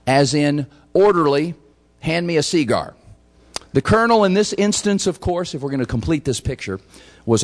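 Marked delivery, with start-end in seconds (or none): 0.9-2.9 "cigar" as SEE-gar, first syllable stressed; Virginia pronunciation. Shown as a demonstration. Officer asking an orderly for a smoke, "cigar" said SEE-gar. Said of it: "emphasis on the E".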